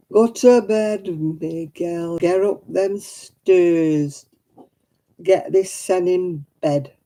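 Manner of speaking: broad northern English accent, playfully hammed-up; put-on northern accent. Streamer telling Miguel to go to bed, mock northern English accent. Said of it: "Is that enough accent for you?".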